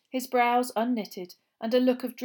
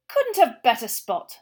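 happy; 3 semitones higher, 8 dB louder, slower than usual. A narrator's reading. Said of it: "said Mister Weasley happily".

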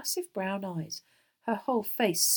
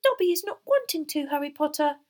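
high, squeaky house-elf; high-pitched eager elf voice; normal elf voice; 9 semitones higher, 7 dB louder than usual. A narrator's reading. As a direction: speak up as a little elf. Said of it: "talking normally again".

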